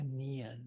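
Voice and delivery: soft "nian", just lightly two syllables; subtle extension. Shown as a demonstration. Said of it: "just a little bit".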